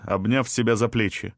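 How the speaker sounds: ordinary delivery, nothing marked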